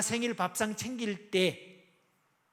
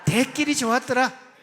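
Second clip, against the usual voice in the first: loud, slow Gyeongsang dialect cheer; booming Gyeongsang version; 4 semitones higher, 10 dB louder than usual. Shown as a demonstration. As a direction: call it out high in a Busan accent. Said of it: "경상도 버전 계속 갑니다".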